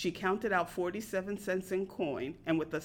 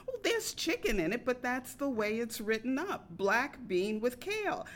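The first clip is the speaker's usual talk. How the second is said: repeating herself, rising; 3 semitones higher than usual. Retold or imitated. Waitress repeating the menu line, higher, with rising ends. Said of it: "waitress repeats herself".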